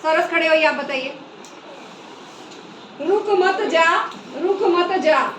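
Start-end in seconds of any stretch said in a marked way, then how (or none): 3.0-5.3 "रुक मत जा" said twice with the same tune; both readings alike. Shown as a demonstration. Teacher repeats the students' identical reading, undifferentiated. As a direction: read "रुक मत जा" slowly, evenly, with no telling break. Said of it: "हमने एक जैसा ही इसको पढ़ दिया".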